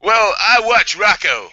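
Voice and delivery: high, slow, put-on English accent. Shown as a demonstration. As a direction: stretch it out in a hammed-up English accent. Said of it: "do it in an English accent".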